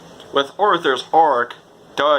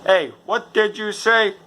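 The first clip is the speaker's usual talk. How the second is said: tough guy; 8 semitones higher than usual. Retold or imitated. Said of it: "He's like".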